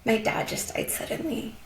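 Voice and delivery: feeling emotional. Real, not acted. Guest recalls a grieving customer's apology, getting emotional. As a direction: keep telling it while holding back tears. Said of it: "I'm feeling emotional".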